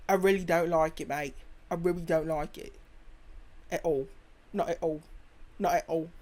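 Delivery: lightly imitated British accent; mock British accent. American joking about life in England, mock British accent. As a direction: put on a British grumble, voice a little low.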